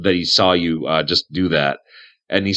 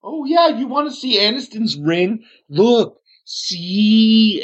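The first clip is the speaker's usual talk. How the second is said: high, eager hermit voice; Aniston, excited to show off; 14 semitones higher, 4 dB louder, slower than usual. Acted. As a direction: show it off proudly, pitched way up.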